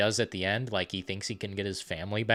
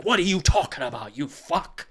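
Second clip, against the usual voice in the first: mock scumbag retort; 5 semitones higher than usual. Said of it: "And he's like".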